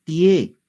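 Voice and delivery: clear, loud model syllable tie; drill syllable tie. Shown as a demonstration. Teacher modelling tie for students, loud and clear. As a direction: say tie out loud for the class to copy.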